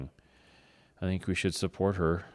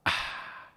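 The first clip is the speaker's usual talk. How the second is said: imitated drinking gasp; 6 dB quieter than usual. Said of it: "when they go".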